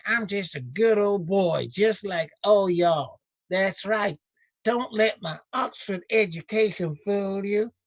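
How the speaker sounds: slow, drawled mock Southern good-old-boy accent. Host mocking a senator's put-on Southern accent. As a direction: lay on the Southern accent like a folksy politician. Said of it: "he wanted to stay in".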